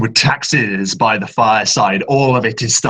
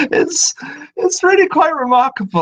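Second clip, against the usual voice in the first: very high, fast ghostly chatter; eager phantom delighted by visitors; high quick spirit voice. Acted. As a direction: rattle it off like an excited ghost. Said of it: "Muse's voice echoes".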